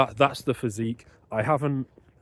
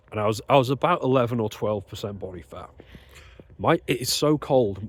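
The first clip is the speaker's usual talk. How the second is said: talking with a numb, frozen mouth. Real, not acted. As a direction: lips too cold to move. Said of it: "my mouth isn't even moving properly".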